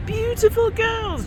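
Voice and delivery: very high, drawn-out rocker impression; hammed-up high, slow croon; a rock singer. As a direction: stretch it high like a mock English rock star. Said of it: "like, the rock singer hovel".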